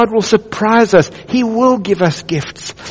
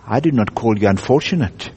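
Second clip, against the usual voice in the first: large deep voice; 7 semitones lower, 4 dB quieter than usual. Acted. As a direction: voice the great lion, low and unhurried. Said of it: "said the large voice".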